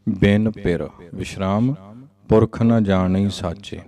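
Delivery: a pause after ਬਿਨ ਪਿਰ, then a pause after ਸਾਚੇ; pause placement. Shown as a demonstration. Teacher showing students where to pause in the line. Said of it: "ਸਾਚੇ ਤੇ ਵਿਸ਼ਰਾਮ ਆਏਗਾ".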